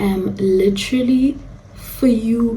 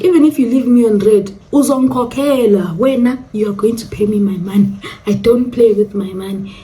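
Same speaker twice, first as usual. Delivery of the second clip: inner defiance. Retold or imitated. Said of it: "In my heart, I'm like".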